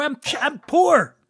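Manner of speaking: slow, high mock whine; hammed-up poor me; mock self-pity. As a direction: plead poverty as a joke. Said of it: "joking self-pity".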